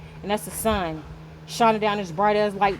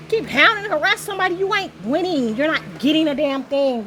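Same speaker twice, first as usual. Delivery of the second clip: scolding; 5 semitones higher than usual. Real, not acted. Scolding the harassing energies.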